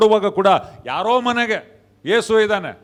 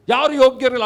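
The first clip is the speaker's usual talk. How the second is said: higher-pitched, imitated dismay; distressed questioning; 4 semitones higher, 4 dB louder, faster than usual. John reacts to the angel's announcement, in mock distress. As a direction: act out John's alarmed disbelief. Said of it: "ಕಣ್ಣೀರು ಇಡ್ತಾನ ಅವನು".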